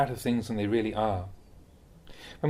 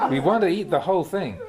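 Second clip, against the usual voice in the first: laughing; 4 semitones higher, 4 dB louder than usual. Real, not acted. Laughing at the image.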